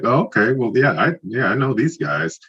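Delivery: light up remembering; young fan getting it; excited realization. Retold or imitated. Retold realization.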